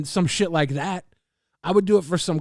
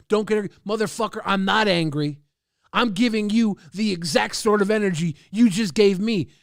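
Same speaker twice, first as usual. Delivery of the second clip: louder, snapping back with the same energy; angry loud retort; 3 semitones higher, 4 dB louder than usual. Acted. Streamer snapping back at a chat critic, loud and angry. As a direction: throw his attitude right back at him. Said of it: "I like getting loud".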